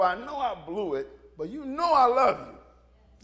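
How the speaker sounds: slow, earnest confession to the Lord; a humble, heartfelt admission; sincere plea. Retold or imitated. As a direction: plead honestly, slowing down. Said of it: "I do him like that".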